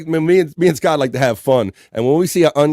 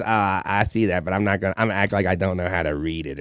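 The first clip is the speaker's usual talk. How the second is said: imitating Ray; 6 semitones lower, 5 dB quieter than usual. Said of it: "he tries".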